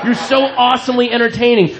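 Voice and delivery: lightly voiced, sneering heckler taunts; mocking heckler. Comic voices the heckler taunting him, mildly mocking. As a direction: put words in her mouth with a sneer. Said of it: "she's doing the mocking laughter".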